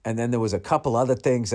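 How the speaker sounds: usual speaking voice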